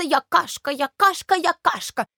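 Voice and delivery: mock the porridge's bragging; mimicking boastful porridge. Milk mimicking the porridge's boasting, high and teasing. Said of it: "кашка постоянно хвастается".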